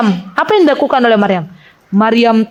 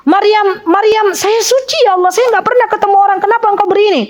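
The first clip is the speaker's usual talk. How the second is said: higher, mildly distressed questioning of God; pleading Maryam; 6 semitones higher than usual. Retold or imitated. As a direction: lightly act out a bewildered plea.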